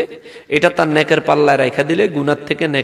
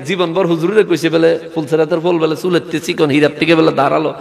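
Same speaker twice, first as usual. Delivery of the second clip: ordinary talk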